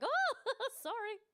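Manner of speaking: high, slow, laughing sorry; overly polite, laughing apology; meek apology. Retold or imitated. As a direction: apologise like a timid Canadian. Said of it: "I was like".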